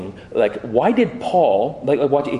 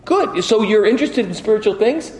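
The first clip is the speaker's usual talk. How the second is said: excited mom; 7 semitones higher than usual. Retold or imitated. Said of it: "My mom was like".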